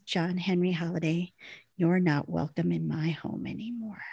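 soft, grave storytelling voice; hushed retold rejection. Wynonna banishes Doc from her home, softly acted. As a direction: drop the volume for the final blow.

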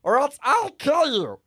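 loud, slow threatening ultimatum; loud threat. Acted. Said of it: "I was like".

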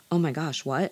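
gasp, then a lightly shocked reply; mock shock. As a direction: play a gullible captain taken aback. Gullible captain hears alarming news.

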